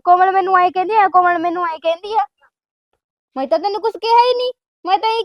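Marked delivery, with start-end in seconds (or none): 0.0-1.1 mocking quote. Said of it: "ਤੂੰ ਉਹਦੇ ਕੋਲ ਗੱਲ ਕਰਦੀ ਆ". 1.1-2.2 mocking quote. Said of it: "ਤੂੰ ਉਹਦੇ ਕੋਲ ਗੱਲ ਕਰਦੀ ਆ".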